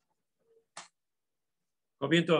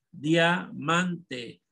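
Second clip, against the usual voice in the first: diamante stretched into separate parts; syllable by syllable. Shown as a demonstration. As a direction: dictate "diamante" as dia, man, te. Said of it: "La van a dividir en sílaba".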